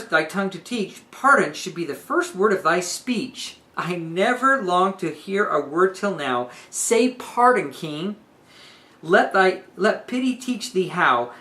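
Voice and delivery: earnest pleading. Retold or imitated. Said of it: "she's pleading in earnest".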